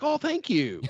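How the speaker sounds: squeaky high thank-you, playing dumb; naive grateful reply. Retelling a clueless victim, high thank-you. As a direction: chirp it way up high like a clueless mark. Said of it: "And they're like".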